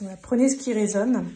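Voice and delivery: talking with a tired, worn voice; losing voice. Real, not acted. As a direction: voice going hoarse. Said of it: "j'ai plus de voix".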